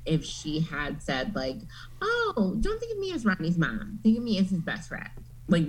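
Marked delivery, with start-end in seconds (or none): 2.0-5.1 high mock mom voice. Imitating an imagined mom.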